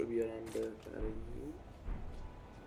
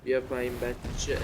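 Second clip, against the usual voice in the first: taunting; 5 dB louder than usual. Real, not acted. Taunting the boss.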